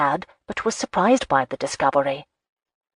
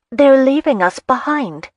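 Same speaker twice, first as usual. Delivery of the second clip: higher, louder sudden call; urgent call; 9 semitones higher, 6 dB louder than usual. Acted. Heroine alerting the hero they are left behind, calling out. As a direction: blurt it out to break the moment.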